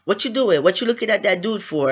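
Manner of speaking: mildly acted snap; retold snapping. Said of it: "So Case snapped. He's like".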